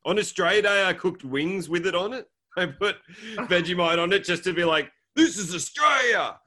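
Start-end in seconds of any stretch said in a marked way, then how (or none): 2.6-4.9 laughing. Real, not acted. Laughing while telling. 5.2-6.4 mock patriotic shout. Mock proud declaration.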